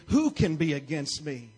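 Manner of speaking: bold declaration. Real, not acted. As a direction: proclaim it like a victory cry. Declaring scripture over the congregation.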